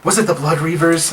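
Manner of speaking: high gasping dismay; gasp, then high horrified concern; shocked aunt. Acted. Aunt hearing her nephew was captured, high shocked voice. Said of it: "she claps her hands to her face".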